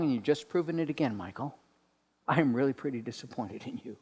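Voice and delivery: sighing, let-down disapproval; disappointed God. Acted. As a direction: shake your head as you say it. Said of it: "a tone of dissatisfaction".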